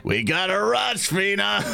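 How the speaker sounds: high-pitched urgent call. Acted. Waitress seeing a crowd of kobolds coming, urgent. Waitress urges colleague to hurry.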